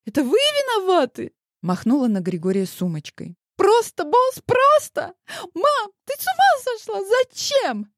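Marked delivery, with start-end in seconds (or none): 0.0-1.3 much higher, louder accusation; a teen lashing out at the boss; high, loud girlish blame; accusing girl. A narrator's reading. 3.6-7.9 much higher, louder near-hysterics; a teen on the edge of tears; high, loud outraged girl; hysterical girl. A narrator's reading. Daughter yells at her mother.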